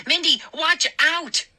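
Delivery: high urgent warning; warning shout. A narrator's reading. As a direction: warn her, too late.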